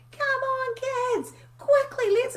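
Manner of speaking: high, loud, frantic hurry-up call; mock mum yelling. Mum rushing her kids to school, high frantic yell. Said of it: "just yelly".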